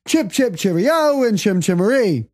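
mock British accent before giving up. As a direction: jolly fake English sign-off. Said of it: "I'm gonna quit talking English".

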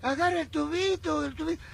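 distant yelling. Retold or imitated. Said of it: "me gritan del otro lado".

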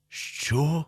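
high, drawn-out incredulous question; alarmed disbelief. A narrator's reading. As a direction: react with rising dread. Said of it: "замість серця зараз драглистий".

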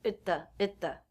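"Itta" quick, with T held before "the"; reduced at, stop T. Shown as a demonstration. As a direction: stop the T, slide into "the". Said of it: "therefore the T is a stop T".

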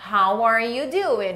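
slow, evenly stretched question; slow model pronunciation. Shown as a demonstration. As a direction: give learners each word slowly. Slow model phrase for learners. (pergunta bem devagar, didática)

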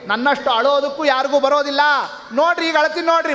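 the lord declaring he cries loudest; boastful shout. Acted. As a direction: call out like you'll outdo everyone. God boasting he will cry loudest.

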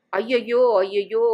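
mock wail of pain. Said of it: "ஒரே அலறல்".

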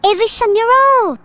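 high, loud passionate scream; full scream. Pretend. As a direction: scream it with all your passion. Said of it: "really shout it, really scream it".

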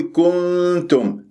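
كنتم with the u rounding spread into the n; rounding carried over. Shown as a demonstration. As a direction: recite كنتم wrongly, humming the n through rounded lips. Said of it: "نقلت الضم".

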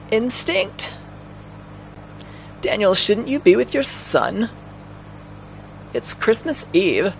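high-pitched questioning woman; Aya. Acted. Aya asking Daniel about his son, high-pitched voice.

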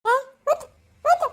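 tearful cry of grief. Acted. Distraught mother crying out over her lost child. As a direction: break down calling out through tears.

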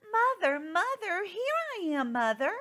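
high, loud eager chick calling; high excited little bird; excited baby bird. Acted. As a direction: run up shouting for mum. Baby bird runs to thing.

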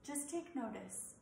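measured, scripted meditation delivery with pauses; guided meditation. Acted. Yoga teacher settling listeners into yoga nidra, calm guided-meditation voice. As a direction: guide them gently toward rest, phrase by phrase.

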